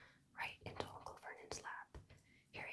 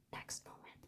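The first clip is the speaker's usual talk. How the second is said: ordinary delivery, nothing marked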